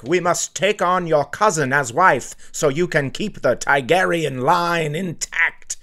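a hint of an old king ruling on marriage; lightly voiced royal from Game of Thrones; mock royal. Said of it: "I know they're like".

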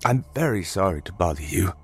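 lightly voiced apologetic old man; polite old stranger. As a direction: gently plead as a humble old traveler.

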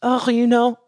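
lightly put-on French-accented English. Explaining to someone with little English, in a French accent. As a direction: imitate yourself slipping into a French accent. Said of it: "speaking English with a French accent".

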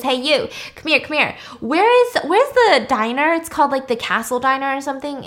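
calling out. Retold or imitated. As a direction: wave a stranger over.

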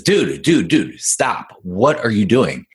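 puzzled, insistent acted protest; urgent interjection. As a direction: cut in to stop someone mid-frenzy. Old dog interrupts the tail-chaser.

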